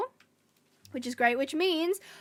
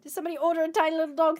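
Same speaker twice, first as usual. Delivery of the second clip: playful dog talk; 3 semitones higher, 4 dB louder, much faster than usual. Real, not acted. Talking to her dog.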